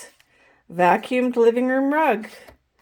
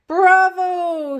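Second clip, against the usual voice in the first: bravo; 8 semitones higher, 5 dB louder than usual. A narrator's reading. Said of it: "said their teacher".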